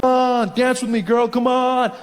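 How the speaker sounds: pushy creep at a bar; creepy guy. Acted. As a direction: pester her into dancing. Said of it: "That creepy guy comes up".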